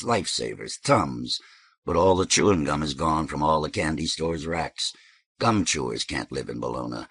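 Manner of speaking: a hint of a low-voiced lecturer; musing local. Voices Tack in story.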